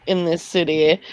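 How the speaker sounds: put-on light heavy Scottish accent. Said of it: "She's got a really heavy Scottish accent".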